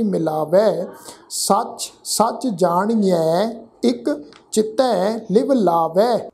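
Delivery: slow, deliberate chanting recitation; scripture recitation. Shown as a demonstration. Teacher recites Gurbani slowly to students. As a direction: lay out every syllable carefully.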